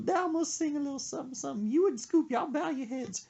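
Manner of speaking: put-on high, fast old lady announcing a song. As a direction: rattle it off as her, bossy and quick. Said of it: "she goes".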